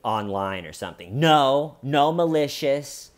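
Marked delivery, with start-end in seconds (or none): 1.2-3.1 louder, higher mock interruption; cutting her off. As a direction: cut in with an emphatic retold denial. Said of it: "she cuts her off".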